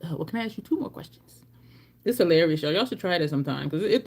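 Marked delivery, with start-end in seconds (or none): 0.0-1.4 quick unvoiced whisper on "two more questions". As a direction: hush it out fast, half embarrassed. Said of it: "before they start to be like".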